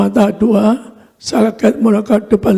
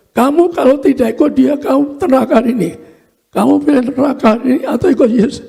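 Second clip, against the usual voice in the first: higher-pitched retold ultimatum; mock threat, urgent but not shouted; imitated stern warning; 4 semitones higher than usual. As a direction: lightly act out a heavenly warning, pitch lifted. Voices angel's ultimatum at hell.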